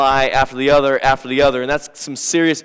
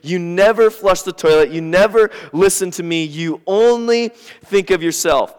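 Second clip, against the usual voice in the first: higher, louder mock complaint from the wife; nagging wife; 4 semitones higher, 3 dB louder than usual. Pastor voicing his wife listing complaints, nagging. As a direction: list his faults like a fed-up wife. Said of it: "And so she says".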